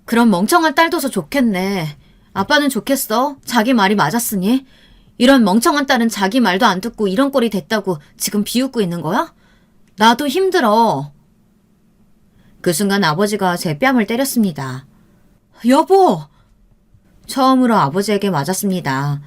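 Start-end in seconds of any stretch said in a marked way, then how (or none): 0.0-11.1 hurt, angry outburst at her father; yelling at father. Acted. Daughter yelling at her father after being blamed. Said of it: "아버지에게 크게 소리를 질렀어요". 15.7-16.2 sharp high cry of shock; alarmed cry. Acted. Mother crying out as the father slaps their daughter.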